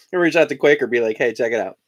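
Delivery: talking while chewing; words around a bite of cereal; mouth full. Real, not acted. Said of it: "I don't wanna talk with my mouth full".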